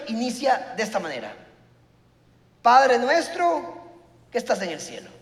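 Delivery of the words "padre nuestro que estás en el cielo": slow recitation. Shown as a demonstration. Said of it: "Pausa, analice".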